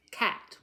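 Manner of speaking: CAT punched out in one burst; one-burst syllable. Shown as a demonstration. Teacher showing one burst from your mouth, CAT said crisply. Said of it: "One burst from your mouth".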